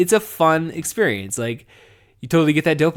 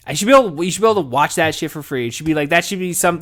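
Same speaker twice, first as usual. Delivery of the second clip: loud, fast, fed-up insistence; raised voice ranting over TV prices; heated rant; 4 semitones higher, 3 dB louder, faster than usual. Real, not acted. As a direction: punch it out like a complaint you've made a hundred times. Rant about paying for TV.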